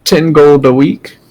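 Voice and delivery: put-on slow, high old woman drawl; slow old lady. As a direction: take your time like an old shopkeeper. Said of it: "She said".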